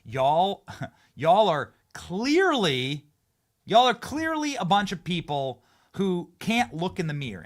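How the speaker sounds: imitating the senator. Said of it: "saying, like what he just said".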